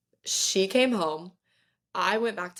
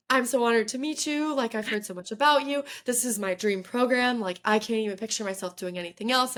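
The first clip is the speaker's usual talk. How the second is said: eager rambling; 4 semitones higher than usual. Retold or imitated. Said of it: "start rambling at her".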